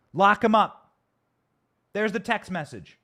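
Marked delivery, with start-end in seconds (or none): 0.1-0.9 rally cry. Real, not acted. Rallying chant at Hunter Biden.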